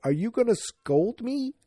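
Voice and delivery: put-on high-pitched child's question; worried little girl. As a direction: ask like a kid in trouble. Voices child fearing a scolding.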